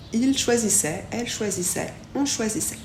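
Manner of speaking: "choisissait" finissant en è; T final muet. Shown as a demonstration. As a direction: dire chaque "choisissait" sans le T. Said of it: "A I fait toujours est, le T, il est muet". (« choisissait » avec AI dit è, T muet)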